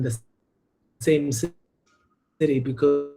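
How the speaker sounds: choppy call audio dropping words; radio breaking up. Real, not acted. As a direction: voice cutting in and out over a bad line. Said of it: "the audio is cutting in and out a little".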